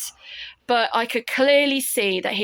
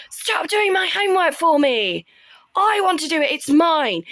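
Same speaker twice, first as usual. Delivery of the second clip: put-on much higher, louder childish protest; whiny brothers; 8 semitones higher, 4 dB louder than usual. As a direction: mimic the older boys complaining, pitched up. Brothers protest him doing homework.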